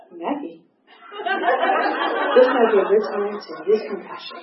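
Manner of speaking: hear Linda in her head, half laughing; inner sponsor voice. Retold or imitated. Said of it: "I can hear".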